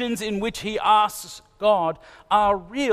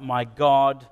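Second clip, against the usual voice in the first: lament; 4 semitones lower than usual. Retold or imitated. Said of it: "David cries out".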